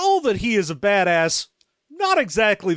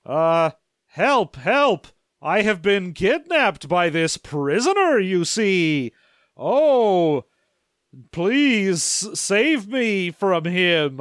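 hammed-up fake victim; slower than usual. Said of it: "Sliffer is like".

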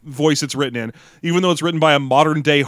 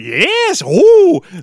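high, loud, stereotyped British granny voice; squeaky old British lady impression; British old lady accent; 7 dB louder, much slower than usual. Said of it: "talking like a stereotypical British old lady".

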